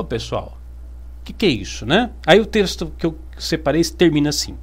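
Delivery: ordinary talk, nothing marked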